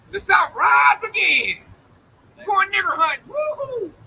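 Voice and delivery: high, whooping imitation of a racist mob; mocking whoop-it-up impression, pitched high; mock rallying cry. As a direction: holler it like a hammed-up rebel yell. Mimics racists rallying for a hunt.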